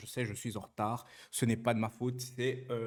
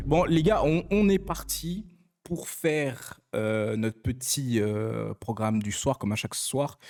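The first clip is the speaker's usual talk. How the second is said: loud, hyped call to the chat; hyped announcement; 6 dB louder, slower than usual. Real, not acted. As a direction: kick off the show loudly. Streamer kicks off the evening programme.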